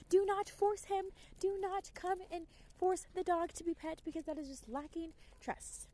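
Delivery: lecturing. Retold or imitated. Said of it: "and I'm like".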